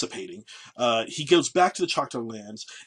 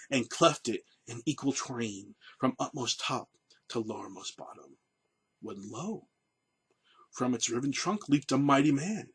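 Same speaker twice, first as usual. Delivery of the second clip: dramatic speech reading. Acted. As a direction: read it as a grand, solemn legend. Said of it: "this is Pushmataha, his words to Andrew Jackson".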